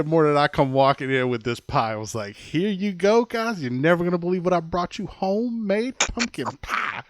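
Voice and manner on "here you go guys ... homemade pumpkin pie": high, bright salesy pitch; hammed-up proud baker offering pie; mock cheerful host. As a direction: sell the awful pie with fake cheer.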